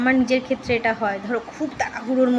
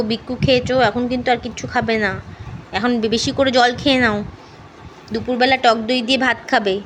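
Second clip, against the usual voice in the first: coaxing pet talk; 3 dB louder than usual. Real, not acted. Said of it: "একটু খুঁচিয়ে খুঁচিয়ে একটুখানি ওকে charm করতে হয়".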